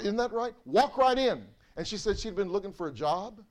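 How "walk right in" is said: higher, louder call to walk in; ringing prophetic proclamation; proclaiming. Retold or imitated. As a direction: announce God's invitation boldly. Quoting God's word to her.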